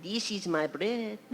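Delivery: slow, imitated Hispanic accent; mock-solemn Hispanic-accented scripture. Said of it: "in a Hispanic dialect".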